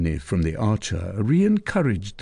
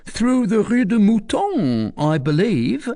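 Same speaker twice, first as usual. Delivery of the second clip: much higher, offhand answer; careless; 12 semitones higher, 4 dB louder than usual. Acted. Recluse misleading Tristan, careless. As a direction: toss it off as if it doesn't matter. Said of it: "in a careless tone".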